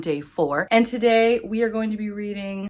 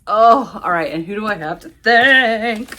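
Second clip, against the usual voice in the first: ordinary talk, nothing marked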